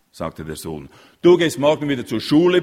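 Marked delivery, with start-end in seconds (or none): 1.2-2.6 higher, much louder furious roar; bellowing father. A narrator's reading. Father bellowing at his son, furious roar. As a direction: roar the order at your son. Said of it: "brüllte der Vater".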